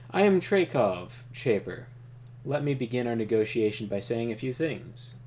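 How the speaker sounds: a lightly voiced calm, powerful leader; Trakov voice. Reading Trakov's lines to the player, calm and commanding. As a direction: play him as a composed ruler opening talks.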